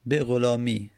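به غلامی said "be gholami", one "i" ending; single kasra pronunciation. Shown as a demonstration. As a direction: end به غلامی on a single "i" sound. (به غلامی با یک کسره)

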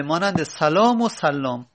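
سلام first plain, then سلام with a doubled l, sallam; contrasting two pronunciations. Shown as a demonstration. Teacher shows students two readings of one spelling. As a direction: set سلام against سلام, salam then sallam.

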